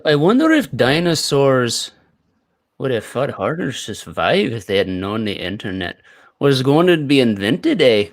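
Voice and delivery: Canadian lilt with an eh tacked on the end; Canadian accent. Acted. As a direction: play a Canadian musing aloud, ending with a rising eh. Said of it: "All right, Canadian".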